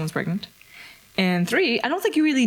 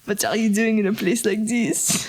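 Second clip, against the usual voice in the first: mock flirt; 3 semitones higher than usual. Flirty pickup line act.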